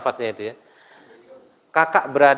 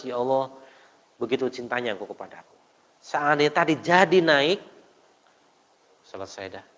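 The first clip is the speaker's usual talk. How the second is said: tearful prayer. Retold or imitated. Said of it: "baru dia menangis".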